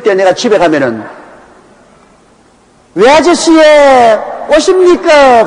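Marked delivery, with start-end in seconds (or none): 2.9-5.5 put-on high, slow childlike Gyeongsang dialect with a laugh; kids' Gyeongsang accent. Preacher imitating his nieces greeting him in Gyeongsang dialect. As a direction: mimic the nieces' thick Gyeongsang greeting, much higher. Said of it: "완전히 경상도 사투리를 써".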